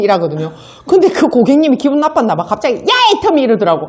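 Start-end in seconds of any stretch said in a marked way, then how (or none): 2.8-3.4 a higher, curt "hey" from an irritated customer; rude customer's call. Retold or imitated. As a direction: bark out her nickname like an annoyed client. Angry customer calling her rudely. (기분 나쁜 손님이 높은 목소리로 툭 부르듯)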